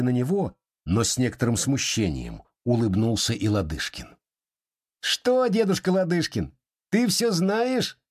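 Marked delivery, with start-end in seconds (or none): 5.0-8.0 sly teasing. Acted. Boy slyly teasing his grandfather after the escape. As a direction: tease the old man slyly. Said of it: "поддразнил его лукаво Сергей".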